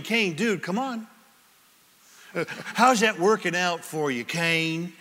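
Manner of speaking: a light, casual talk-show host voice, barely changed; bad Doctor Phil. Preacher voices God as Doctor Phil talking to Cain, lightly hammed. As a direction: lightly voice a TV counselor nudging Cain. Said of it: "That was the worst Doctor Phil impression ever".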